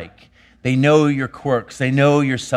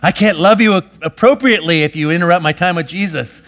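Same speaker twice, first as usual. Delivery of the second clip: indignant scolding; 4 dB louder than usual. Retold or imitated. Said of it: "what crime is a three".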